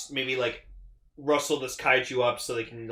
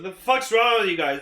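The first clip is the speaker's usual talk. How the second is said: annoyed shout; 6 semitones higher, 6 dB louder than usual. Retold or imitated. Captain snapping at hot crew.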